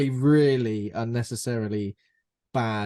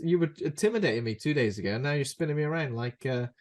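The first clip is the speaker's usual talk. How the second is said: higher-pitched mock indignation; exasperated pretend protest; 4 semitones higher, faster than usual. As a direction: play it as someone fed up with the fuss. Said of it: "I'd be like".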